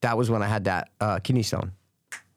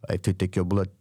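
blunt nurse impression; 6 semitones lower than usual. Imitating the blunt African nurse.

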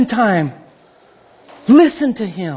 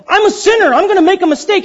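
anxious sinner; 9 semitones higher, faster than usual. Retold or imitated. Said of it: "Yeah, like".

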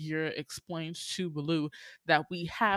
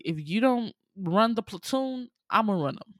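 higher, louder, bossy matriarch voice; bossy elephant wife; 4 semitones higher, 5 dB louder than usual. Retold or imitated. Colonel's wife bossing her husband, louder and higher. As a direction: take charge of the platoon yourself. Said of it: "who's like".

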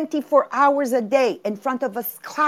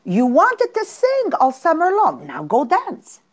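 scolding aunt; 5 semitones higher than usual. Retold or imitated. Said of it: "the aunt says".

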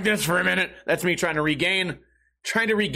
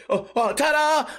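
mock ta-da reveal; 8 semitones higher than usual. Mock reveal, caught unready.

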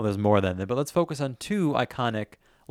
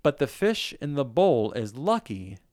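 reciting lyrics; slower than usual. Shown as a demonstration. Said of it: "I guess I'm speaking this".

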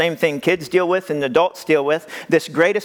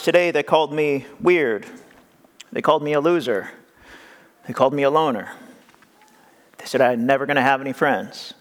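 put-on hurt child; 4 semitones lower than usual. Nephew telling his uncle he was bullied, said low and hurt.

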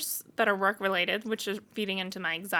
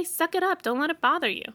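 tough love, pitched up high; blunt; 7 semitones higher than usual. Retold or imitated. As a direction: tell them straight to toughen up. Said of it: "I'm gonna say".

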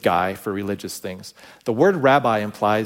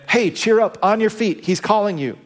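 calling out encouragement; 9 semitones higher than usual. Retold or imitated. Crowd calls to the blind man.

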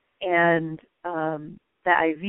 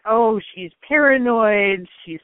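dismissive psychiatrist; 3 semitones higher, 5 dB louder than usual. Retold or imitated. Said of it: "really unpleasant".

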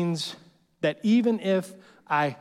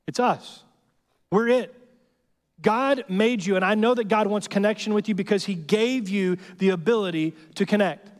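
rising preaching; 4 semitones higher than usual. Real, not acted. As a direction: push it up to a peak. Preacher builds to climax.

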